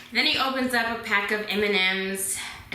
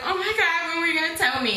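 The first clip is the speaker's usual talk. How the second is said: higher, indignant outburst; shocked friend; 8 semitones higher, faster than usual. Retold or imitated. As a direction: exclaim it as the astonished friend. Friend confronts her in retold scene.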